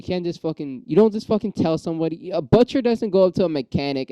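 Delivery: riled up. Real, not acted. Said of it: "I'm getting riled up again".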